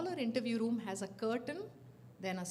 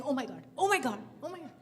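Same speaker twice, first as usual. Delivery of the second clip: mock panic; 3 semitones higher, 6 dB louder, faster than usual. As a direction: babble in fake alarm. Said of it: "I'm saying".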